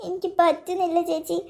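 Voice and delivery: low-energy, tearful confession; heartbroken, holding back sobs; crying. Acted. Girl telling chechi she loves him, crying. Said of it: "നീ ഇങ്ങനെ കരയല്ലേ".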